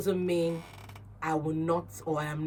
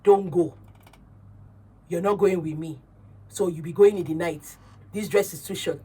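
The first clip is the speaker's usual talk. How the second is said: put-on bossy boyfriend; 4 dB louder than usual. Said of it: "And you just say".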